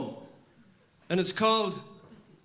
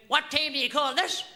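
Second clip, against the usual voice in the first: pointed sarcastic demand, rising at the end; high, accusing mock question; sarcasm; 7 semitones higher than usual. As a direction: needle a latecomer with a raised voice. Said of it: "I knew it was sarcasm".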